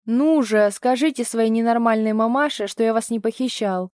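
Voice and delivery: loud, mocking push at the kids; father goading the boys; scornful goading. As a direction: sneer at their mother. Tolik goads the boys.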